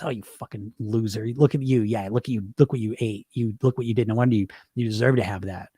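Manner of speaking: lightly voiced sneering inner critic; a hint of a harsh disciplinarian voice berating you; mean inner critic. The inner parent voice scolding you over food, lightly sneering. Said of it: "It just, it's mean".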